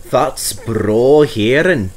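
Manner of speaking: slow, heartfelt Scottish murmur; with feeling. Acted. Douglas moved by the news, slow and heartfelt. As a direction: let it land slowly, moved. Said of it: "said Douglas with feeling".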